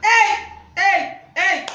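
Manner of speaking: high, loud scandalised cries; loud outburst of shock; shocked shouting. Acted. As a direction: shout out in alarm, each cry on its own. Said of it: "Pourquoi tu cries comme ça".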